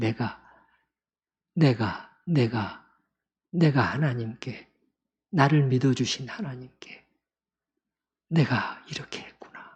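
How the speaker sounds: acted shaky, trembling voice, words faltering and breaking off. Retelling David's words about what he did to God, trembling, broken-off voice. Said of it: "목소리는 떨렸을 것이고 말을 끝까지 이어가기도 어려운".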